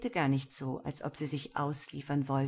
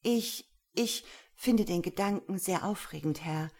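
hasty reply; 2 semitones higher than usual. Acted. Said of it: "erwiderte sie hastig".

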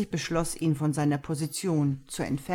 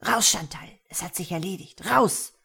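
shouting; 2 semitones higher than usual. Acted. Boss shouts secretary out.

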